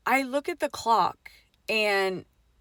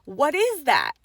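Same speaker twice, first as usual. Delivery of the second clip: mild mock scream, a little higher; toned-down imitation of an alarmed cry; quoted scream; 4 semitones higher, 4 dB louder, slower than usual. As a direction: quote the scream half-strength. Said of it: "why did you scream".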